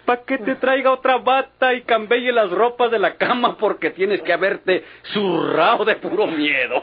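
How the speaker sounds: mock him while you can't stop laughing; laughing while teasing. Friend mocks him while laughing. (burla entre risas)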